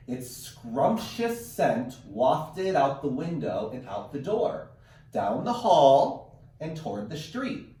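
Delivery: put-on slow, expressive read-aloud to children; read-aloud storytelling. Teacher reading a picture book to her class, slow and expressive. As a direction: draw the kids into the story, slowly.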